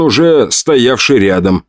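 usual speaking voice

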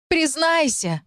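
a staged jealous scream; shouting. Acted. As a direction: yell it down the corridor. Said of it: "продолжала я кричать".

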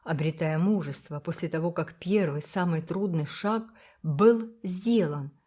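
ordinary delivery, nothing marked

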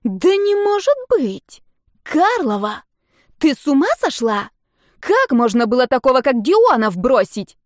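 can't believe she'd leave him; Dasha's shocked, rising outcry; shocked friend. A narrator's reading.

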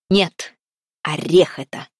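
loud firm answer; old king calling out to the fiery maiden; loudly. A narrator's reading. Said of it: "громко сказал Салтан".

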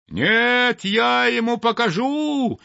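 high, loud, breathless with rage; furious yelling. A narrator's reading. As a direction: sparrow sputtering in fury. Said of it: "орал Воробей Воробеич, задыхаясь от ярости".

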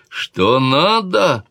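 high, loud, very slow exclamation; king exclaiming. A narrator's reading. King exclaiming back at his sister. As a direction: throw her words back at her, drawn out. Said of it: "воскликнул король".

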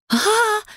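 high-pitched shriek of fright; startled scream. Acted. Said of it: "заорали мы одновременно". (испуганный визг, резко высоко)

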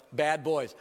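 tossed-off "Bad boys." said lightly, dismissive; offhand verdict. Preacher mimicking readers who shrug off the apostles, offhand. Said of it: "We read past this stuff and go".

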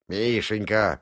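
mimicking her Мишенька in a teasing echo; Изя teasing Аля by echoing her, mock voice; mock imitation. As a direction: parrot "Мишенька!" back at her mockingly. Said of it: "передразнил Изя".

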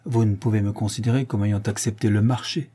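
accepté leaned on firmly; stress on accepté. A narrator's reading. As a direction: press hard on the word accepté. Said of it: "et elle appuya sur le mot".

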